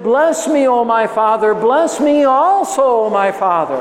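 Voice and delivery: high, aching plea; pleading cry. Acted. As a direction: beg for a blessing through tears. Esau cries to his father.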